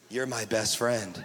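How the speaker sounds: very low, slow, creepy imitation; mock clingy friend. Preacher imitating someone locking you in as best friend, mock creepy. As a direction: drop deep and draw it out possessively.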